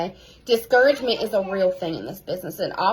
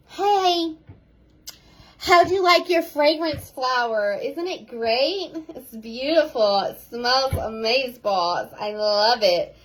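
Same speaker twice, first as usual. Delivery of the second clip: gushy fake follow-up; slower than usual. Coach to her team, mocking a gushy empty follow-up text. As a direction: overdo the sweet empty check-in. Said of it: "I don't follow up like that".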